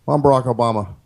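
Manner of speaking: measured pauses, lightly voiced president; Obama impression. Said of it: "he talks more like this".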